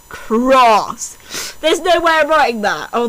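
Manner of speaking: ordinary talk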